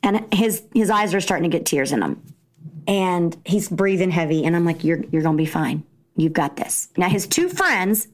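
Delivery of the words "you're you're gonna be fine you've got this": calm him down gently. Retold or imitated. Mom comforting son in tears.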